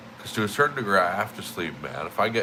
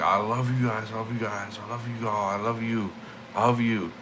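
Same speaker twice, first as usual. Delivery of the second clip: cracking voice; 3 semitones higher than usual. Retold or imitated. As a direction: imitate a hoarse cracking shout. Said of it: "I'm screaming this so loud, my voice is cracking".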